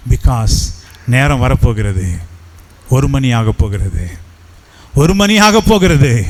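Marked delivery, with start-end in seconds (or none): 4.9-6.3 the hour is almost here, voice lifts; urgent rising repeat. Acted. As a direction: push the clock line up with growing urgency. Repeated time warning, second take.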